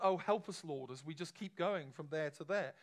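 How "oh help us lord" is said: higher, louder mock plea; desperate plea. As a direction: cry out to God, hammed-up. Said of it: "our prayers aren't".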